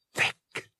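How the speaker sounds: hushed whisper. A narrator's reading. Bria in the dark dorm, whispering to Han. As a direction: breathe the name without voice. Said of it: "she whispered".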